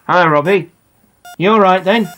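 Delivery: lightly voiced dad, hiding his excitement; suppressed excitement. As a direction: keep a lid on the excitement. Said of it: "Dad sounding excited, but trying to hide it".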